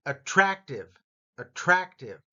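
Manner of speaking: "Attractive" with the middle syllable punched; stress on second syllable. Shown as a demonstration. Teacher modelling a word for learners to copy, stressed middle syllable. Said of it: "ra part gets the emphasis".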